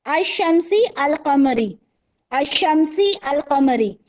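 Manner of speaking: slow, syllable by syllable, अश-शमसी अल-कमरी; teacher chanting अश-शमसी अल-कमरी slowly to students; slow recitation. Shown as a demonstration. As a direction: recite it slowly like a memory drill. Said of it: "जब आप बोल के देंगे".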